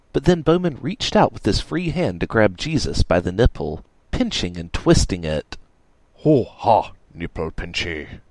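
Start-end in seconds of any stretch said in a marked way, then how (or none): 6.2-8.2 casual. A narrator's reading. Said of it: "Bowman said casually".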